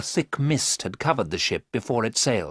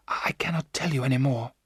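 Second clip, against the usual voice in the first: breathless hypnotized whisper; 4 semitones higher than usual. A narrator's reading. Mina under hypnosis, whispering to the men. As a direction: let the words fade to a breath.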